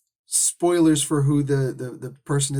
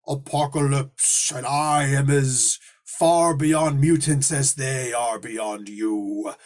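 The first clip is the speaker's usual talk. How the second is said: villain boast; 2 semitones lower, slower than usual. Retold or imitated. Apocalypse's boast to Nightcrawler.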